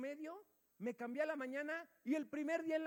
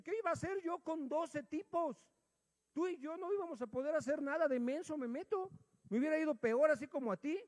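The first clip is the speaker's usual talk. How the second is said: mildly exasperated self-defence, pitched higher; protesting; 5 semitones higher, 3 dB louder than usual. Retold or imitated. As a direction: retell arguing back at an upset friend. Retold quarrel with aggrieved friend.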